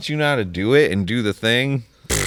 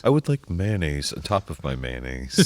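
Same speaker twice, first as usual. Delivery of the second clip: lightly lowered mock white guy; stereotypical white guy; 7 semitones lower, 4 dB quieter than usual. Ordering mayonnaise in a parody white guy voice. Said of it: "stereotypical accent".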